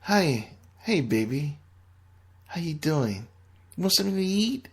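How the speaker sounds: lightly voiced adoring partner; sweet-talking woman. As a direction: coo over him like a doting girlfriend. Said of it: "being compared to B".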